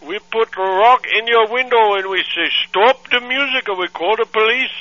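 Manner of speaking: put-on accented angry father on the phone; angry foreign dad. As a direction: scold like an outraged immigrant dad. Prank caller's put-on voice.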